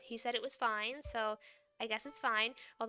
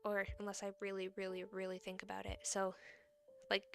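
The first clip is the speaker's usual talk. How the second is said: softer, held-back voice to save a sore throat; talking quietly; 6 dB quieter than usual. Real, not acted. VTuber tells viewers about faces, speaking quietly to rest her voice. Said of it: "All right, I'm gonna talk quietly".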